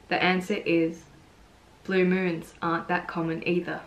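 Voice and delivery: gentle, unhurried recital of a poem; poetry reading. Acted. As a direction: read the poem line by line, with pauses. Reads own poem aloud.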